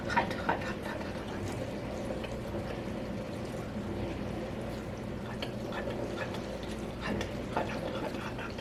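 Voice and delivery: breathless whispered muttering, fingers burning; whispered hot hot. Real, not acted. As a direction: mutter under your breath while touching something hot. Picking meat off hot bones.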